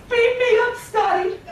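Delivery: high, urgent sci-fi summons; Star Trekky voice. Acted. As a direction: call out like a starship captain. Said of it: "in my best Star Trekky voice".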